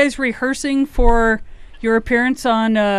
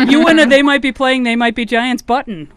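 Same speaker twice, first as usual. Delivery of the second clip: loud laughing prize announcement; excited; 3 semitones higher, 5 dB louder than usual. Real, not acted.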